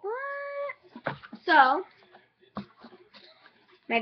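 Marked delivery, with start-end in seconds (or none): 0.0-1.2 surprised. Retold or imitated. Retelling her shock at boxes.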